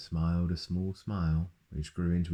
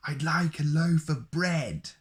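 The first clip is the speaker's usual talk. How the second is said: much higher, louder, slow booming voice; booming Mister Noisy; 10 semitones higher, 4 dB louder, slower than usual. Acted. Mister Noisy orders bread from the baker, booming. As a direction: boom it out like a noisy giant. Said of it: "boomed Mister Noisy".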